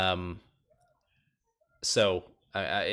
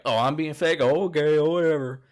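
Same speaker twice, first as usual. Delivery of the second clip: higher, louder sarcastic comeback; mock offended retort; 5 semitones higher, 4 dB louder than usual. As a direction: toss it back indignantly, imitating her. Acted retort in retold quarrel.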